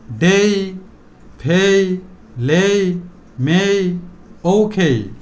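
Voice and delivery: ডেই, ফেই, লেই stretched one by one with pauses; drawn-out vowel. Shown as a demonstration. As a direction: hold the "ei" in ডেই, ফেই, লেই, মেই, ওখেই. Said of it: "একটু long time উচ্চারণ করব". (ডেই, ফেই, লেই টেনে টেনে উচ্চারণ)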